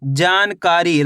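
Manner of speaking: जानकारी slow, with a long जा and कारी; drawn-out sounding-out. Shown as a demonstration. Teacher showing the long vowel for spelling, slow and drawn out. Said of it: "जा का उच्चारण खींच को रहा है".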